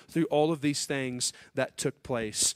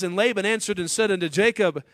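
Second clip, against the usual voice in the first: louder, higher, rising scripture reading; fervent scripture reading; 7 semitones higher, 5 dB louder than usual. Acted. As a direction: read out Laban's greedy claim with rising force. Reading Laban's claim from scripture.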